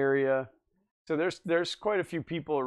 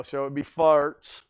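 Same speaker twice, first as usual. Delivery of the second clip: deadpan punchline; 3 dB louder, slower than usual. Real, not acted. Punchline acronym.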